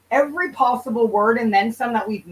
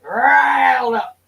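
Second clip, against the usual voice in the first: slow laughing repeat; 2 semitones higher, 4 dB louder, much slower than usual. Real, not acted. Streamer repeats her own phrase, amused and laughing. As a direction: stretch it out half laughing. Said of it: "And I'm right riled up now".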